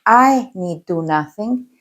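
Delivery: "I" leaned on, then "need do nothing" slow; stress on I. Shown as a demonstration. Teacher showing how emphasis changes meaning, stress on "I". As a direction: put the weight on the word "I", unhurried. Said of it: "if you put the word on".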